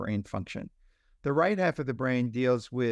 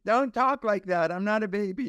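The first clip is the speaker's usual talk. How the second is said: put-on a three-year-old who's fed up with being babied; indignant toddler; 7 semitones higher than usual. Three-year-old objecting to being talked to like a baby, indignant high protest. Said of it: "they're gonna say".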